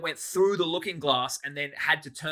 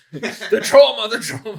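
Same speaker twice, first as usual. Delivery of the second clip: higher, slow, laughing through the word trauma; laughing mock trauma; 8 semitones higher, 12 dB louder, slower than usual. Real, not acted. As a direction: drag it out, laughing.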